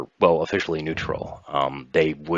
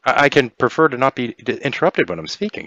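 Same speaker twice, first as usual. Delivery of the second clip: higher start, dropping into a cool rebuke; grinning, sinister edge; 8 semitones higher, 4 dB louder than usual. Acted. Kiva rebukes an interrupting player, grinning with menace. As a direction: rebuke the interruption through a grin. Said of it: "she says with a grin".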